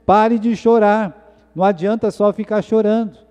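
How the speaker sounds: the leaders telling the people to stop weeping; Esdras and the Levites urging. Retold or imitated. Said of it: "Esdras e os levitas estão dizendo". (líderes mandando parar de chorar, devagar e mais agudo)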